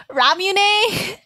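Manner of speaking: Ramune as RAH-myu-nay; tentative pronunciation. Shown as a demonstration. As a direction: try Ramune with a "myu" in the middle. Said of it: "scared to read different words".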